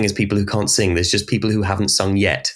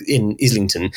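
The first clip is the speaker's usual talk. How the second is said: posh Islington voice; 2 semitones lower than usual. Shown as a demonstration. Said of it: "you need to pull the face with that as well".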